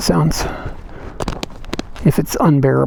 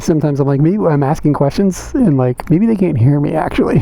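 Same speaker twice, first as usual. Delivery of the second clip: inside a helmet. Real, not acted. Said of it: "Sounds like you're in a helmet".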